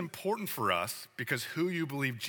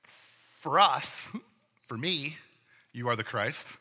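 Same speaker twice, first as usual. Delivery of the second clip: hedged opinion; slower than usual. Retold or imitated.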